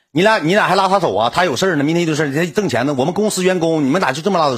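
high-pitched retold confrontation; indignant protest. Assistant challenges two women for taking his colleague away, indignant high protest.

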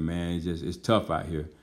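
low, soft, mildly downcast; subdued retold admission. Outcast man telling the pastor about the street, subdued and low. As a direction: let it sink, imitating a weary admission.

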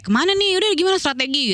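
high-pitched imitated huddle; rally the group, pitched well up; retold urgent questioning at normal volume; flustered planning.

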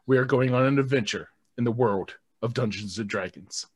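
upbeat, grand announcer read; show intro announcer. Acted. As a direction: welcome them to the big adventure. Reads the show's intro.

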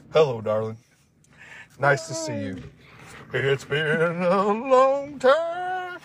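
slow, high crooning voice of an old country singer; breathy vintage purr. Pretend. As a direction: croon it like an old country star. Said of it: "Conway Twitty".

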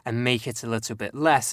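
Southern English accent with dropped sounds; relaxed Southern English. Shown as a demonstration. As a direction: loosen it toward Essex, dropping sounds. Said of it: "I can sort of drop sounds".

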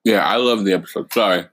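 talking with a mouthful; words around a bite of ice cream; mouth full. Real, not acted. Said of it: "I got ice cream in my mouth".

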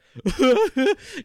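high, loud put-on wail; mock wailing outburst. Fan listening on the morning drive, high mock wail. Acting out self in car.

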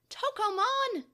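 high, indignant call of the name; scolding. A narrator's reading. Takeru reproaches Tokomon for refusing, scolding. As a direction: rebuke him by name.

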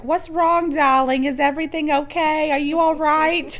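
high-pitched Brooklyn Jewish grandma; thick Brooklyn Jewish accent. Retold or imitated. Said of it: "she's got that thick accent".

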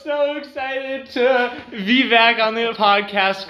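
high, loud announcer delivery; host the show like a radio DJ. Acted. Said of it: "You sound like a radio host".

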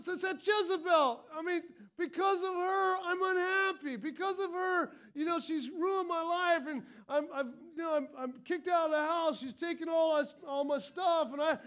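a lightly voiced complainer blaming her; victim mentality. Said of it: "what we take on is this victim mentality".

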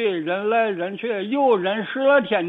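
usual speaking voice

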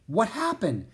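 high-pitched, bewildered question; baffled question. A narrator's reading. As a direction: ask in bewilderment. Baffled Jack asks Merlin.

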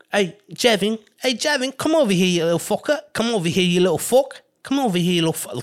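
high mock yelling mother; calling her kid over in a high voice. Mother calling her son over, high mock yell. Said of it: "my mother used to say".

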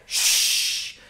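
quick unvoiced shh of feathers flying; whoosh of feathers. Man opens the pillow on the roof, hissing whoosh. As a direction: breathe out the feathers scattering.

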